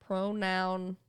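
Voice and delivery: pronunciation broken up as pro-noun-ciation; pronunciation split, with the vowel of "pronounce"; wrong pronunciation. Shown as a demonstration. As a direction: sound out "noun" inside pronunciation, in separate parts. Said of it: "It's not pronunciation".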